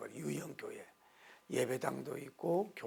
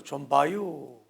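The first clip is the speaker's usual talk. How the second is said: slow, louder Chungcheong drawl; Chungcheong accent; 6 dB louder, much slower than usual. Retold or imitated. Pastor joking that Chungcheong is shortest, slow Chungcheong accent. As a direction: stretch it lazily, Chungcheong style. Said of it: "충청도".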